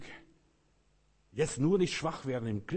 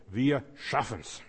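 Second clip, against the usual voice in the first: slow determined; 4 dB louder, much slower than usual. Retold or imitated. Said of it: "Und Magellan sagte".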